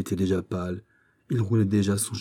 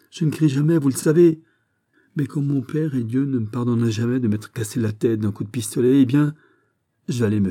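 higher, urgent outburst; desperate insistence; 3 semitones higher than usual. Acted. Raoul begging the captain to tell, desperate. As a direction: press him as a last resort.

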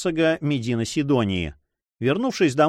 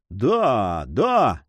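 crowd shout; 3 semitones lower than usual. A narrator's reading. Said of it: "вскричали все".

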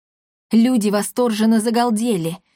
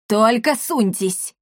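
threatening shout; slower than usual. Acted. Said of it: "крикнул мэр Портофея".

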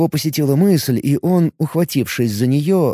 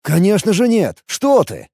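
eager quick protest; starting up; 7 semitones higher than usual. A narrator's reading. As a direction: paladin jumps to reassure the elf, eager. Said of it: "вскинулся паладин".

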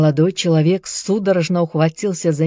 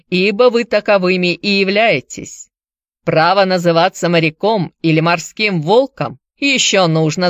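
put-on Irish accent; 4 dB louder than usual. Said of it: "с сильным ирландским акцентом".

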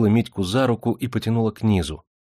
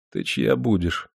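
slow, tender question; gently drawn-out question; slower than usual. A narrator's reading. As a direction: ask it kindly and unhurriedly. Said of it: "ласково спросил Демидов".

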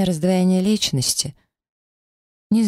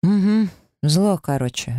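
grumbling; 4 semitones higher than usual. Acted. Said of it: "ворчу в ответ".

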